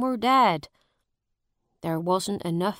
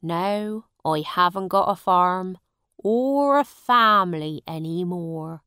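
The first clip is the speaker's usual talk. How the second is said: sad; 7 dB louder than usual. A narrator's reading. Farmer tells his sad story.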